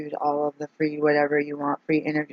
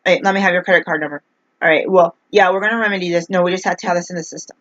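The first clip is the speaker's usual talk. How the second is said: mock smooth phone rep; 3 semitones higher, faster than usual. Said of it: "has a direct voice".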